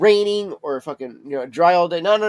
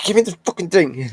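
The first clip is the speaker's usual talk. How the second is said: mock demanding cat voice, higher; voicing the cat; 4 semitones higher, 6 dB louder than usual. Voicing the cat at the treats, mock demand. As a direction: play the greedy cat yelling for treats. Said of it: "and she's like".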